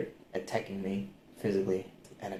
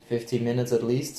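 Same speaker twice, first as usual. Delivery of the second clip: normal talking voice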